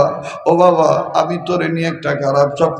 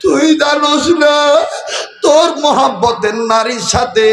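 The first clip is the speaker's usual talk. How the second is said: high, plaintive mother's call; 7 semitones higher than usual. Acted. Mother answering how she knew, high calling voice. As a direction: call out to your son, voice lifted. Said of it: "মা ডাক দিয়ে কয়".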